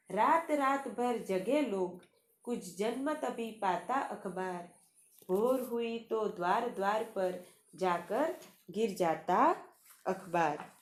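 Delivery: measured, lilting poem reading; poem recitation. Acted. Teacher recites the newspaper poem. (कविता पाठ के अंदाज़ में)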